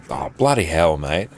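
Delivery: Australian twang laid on for chat; drawled Australian mate; broad Australian accent. Shown as a demonstration. Streamer hams up Australian for chat, broad Australian accent. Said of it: "That's a bit more Australian".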